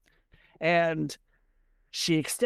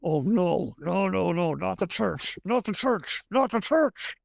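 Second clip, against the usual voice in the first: mock dread. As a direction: plead in rising, acted dismay. Husband dreading wife approaching a nun.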